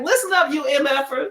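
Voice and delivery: mock rough yell at the kids; gruff cussing man. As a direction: bark it like a foul-mouthed chaperone. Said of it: "he's, like, cussing at 'em".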